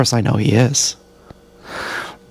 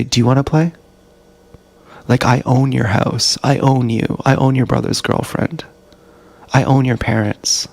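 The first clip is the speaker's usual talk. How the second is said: indifferent tone. Retold or imitated. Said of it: "in the most indifferent tone you could ever imagine".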